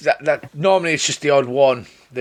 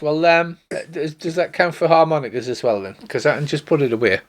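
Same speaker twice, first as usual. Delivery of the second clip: put-on a touch of a blushing young girl; embarrassed girl; 3 semitones higher, faster than usual. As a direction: stammer out an apology. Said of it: "her cheeks flush red".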